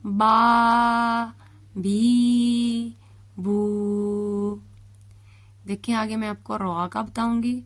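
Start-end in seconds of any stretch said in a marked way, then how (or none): 0.0-4.6 با, بی, بو read crisply as single clear syllables; fluent reading. Shown as a demonstration. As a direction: read the syllables smoothly, one by one. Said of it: "اب ہم اسے روانگی سے پڑھتے ہیں". (روانی سے پڑھنا)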